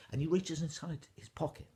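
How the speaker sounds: plain reading voice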